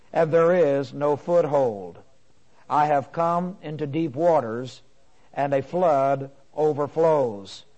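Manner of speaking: slow, deliberate psalm reading; solemn scripture reading. Acted. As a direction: set each phrase apart, weightily. Reads the psalm aloud.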